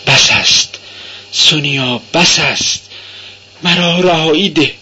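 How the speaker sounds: a narrated hint of a complaining plea; plaintive pleading. A narrator's reading. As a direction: plead with her to let you go. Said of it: "با صدای شکایت آمیزی تمنا کرد".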